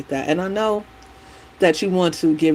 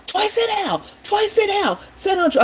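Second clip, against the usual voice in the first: retold frantic scream. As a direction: shout it, scared the boy will fall. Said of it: "he was just screaming at him".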